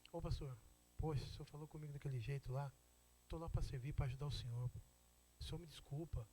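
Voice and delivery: low, soft, hurt-sounding apology; humble apology. Acted. Church member coming back to the pastor to apologise, humble and soft.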